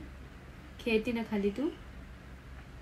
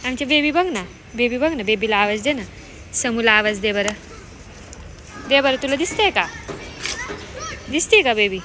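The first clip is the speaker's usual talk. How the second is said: calling out. Real, not acted. Calling out towards the baby.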